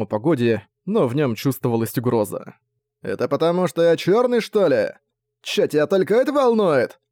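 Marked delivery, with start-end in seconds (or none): 3.0-7.0 higher, rising indignation; indignant. A narrator's reading. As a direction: take offence and push back. Gang leader takes offence.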